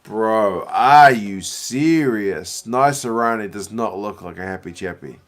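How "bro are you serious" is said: exasperated. Real, not acted. Outraged at match event.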